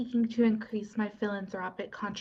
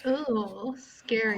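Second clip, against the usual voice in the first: sarcastic; slower than usual. Acted. Mocking the vampire's trick.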